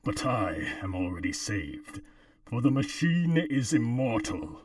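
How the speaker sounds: robotic voice filter. Pretend. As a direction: intone it like a cult machine. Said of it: "try reading the copy pasta".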